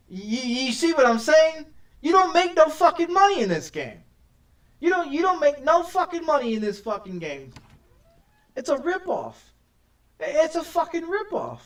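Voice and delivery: loud, high, exasperated outburst; angry rant. Real, not acted. Player rants at the car game about lost money, loud and angry. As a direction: blow up about getting ripped off.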